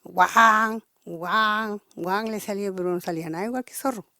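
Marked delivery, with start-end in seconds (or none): 0.0-2.2 a man badly faking a fox's bark; fox call imitation. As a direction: yelp "guau" like a fox trying to call. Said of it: "se pone a gritar como zorro".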